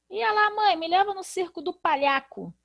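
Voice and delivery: put-on a kid begging mom to go to the circus; lightly voiced child; child asking mom. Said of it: "Ninguém fala assim".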